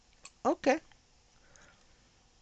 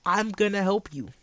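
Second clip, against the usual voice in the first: imagined plea; 4 semitones higher than usual. Retold or imitated. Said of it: "They came to me and said".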